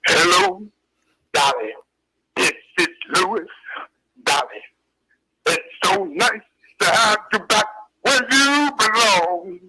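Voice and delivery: slow, raspy crooning jazz-singer voice; slow jazz croon, long held notes; impression of a famous jazz singer. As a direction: drawl it out like the old jazz singer singing to Dolly. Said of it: "It goes a little something like this".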